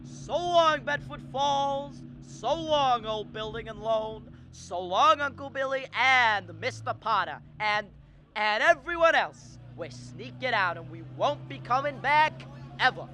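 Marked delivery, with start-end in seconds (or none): 0.0-9.6 jubilant farewell. Acted. George bids town farewell from taxi.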